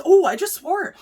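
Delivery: real laughing embarrassment at a slip; amused self-shock. Real, not acted. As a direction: burst out at your own slip. Caught herself swearing, laughing.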